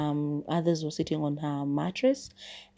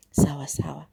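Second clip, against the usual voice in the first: whisper. Retold or imitated. Resigned agreement to herself.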